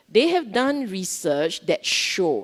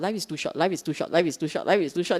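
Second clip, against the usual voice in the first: softer, repeated mantra; self-talk mantra; 3 dB quieter, much faster than usual. Shown as a demonstration. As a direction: repeat it quietly to yourself. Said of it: "So you tell yourself".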